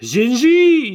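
high, squeaky cookie shout; Gingy voice. Retold or imitated. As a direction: squeal it like a tiny gingerbread man. Imitating the gingerbread man.

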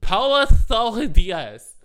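high, loud, drawn-out mock shout; shouted accusation. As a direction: call it out like a tattling kid. Kid loudly accusing Paula.

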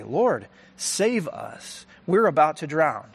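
retold desperate plea; panicked cry for help. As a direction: beg to be saved from drowning. Disciples crying out in storm.

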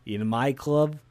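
slow, heavy mock Russian gangster; bad Russian accent. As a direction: drawl it out like a cartoon Russian club boss. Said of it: "The worst Russian accent I've ever heard".

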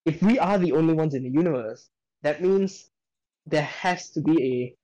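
talking through a burp; words pushed out over a burp. Real, not acted. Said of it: "sorry, I'm burping".

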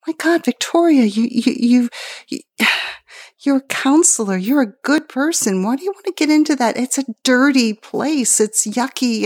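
high, pleading voice of worried friends; worried people. Retold or imitated. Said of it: "people said".

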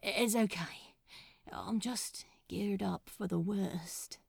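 hushed, bracing for pain; breathy nervous whisper; tense whisper. A narrator's reading.

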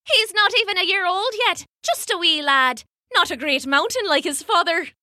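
light, high motherly voice; a mother covering for her baby; the speaker's sweet voice. Acted. She voices a mother character.

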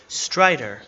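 put-on lightly raspy old man, taken aback; a hint of shock in an old man's voice. A narrator's reading. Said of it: "the raspy voice of the man".

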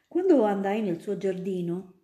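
andai said instead of andrai, a reading slip; misread word. Real, not acted. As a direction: stumble on andai as past tense. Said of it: "quando andrai".

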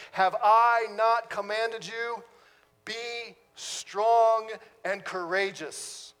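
measured, solemn reading of God's charge; scripture reading. Acted.

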